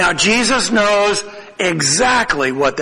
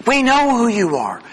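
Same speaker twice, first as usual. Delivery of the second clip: mildly incredulous; 4 semitones higher than usual. Retold or imitated. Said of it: "incredulousness that you would even ask the question".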